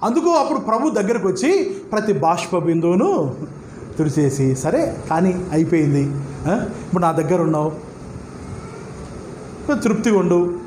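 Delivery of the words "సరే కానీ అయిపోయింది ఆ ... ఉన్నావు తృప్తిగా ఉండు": put-on lower, gentle consoling voice, soothing a weeping child; the mild hint of God consoling a weeper; comforting. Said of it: "అని ఆదరిస్తాడా".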